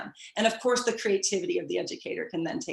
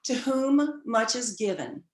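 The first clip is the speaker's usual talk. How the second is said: quoting grandmother. Retold or imitated. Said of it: "She said to me".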